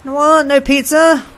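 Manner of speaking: high-pitched gasping delight turning to disbelief; excited, then dismayed. Real, not acted. Player finds no pizza at home, high dismayed surprise. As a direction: gasp it high, then turn incredulous.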